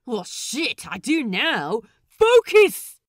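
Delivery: pirate roaring for focus. A narrator's reading. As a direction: bellow it at the crew. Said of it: "Lucius roars".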